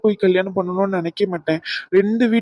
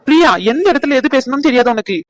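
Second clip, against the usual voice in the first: sharp rebuke, a bit louder and higher; scolding; 4 semitones higher, 5 dB louder than usual. Acted. Ragu scolds Priya for speaking out of turn, scolding. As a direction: tell her off for blurting. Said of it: "ஏன் ஏன் அதட்டுறா?".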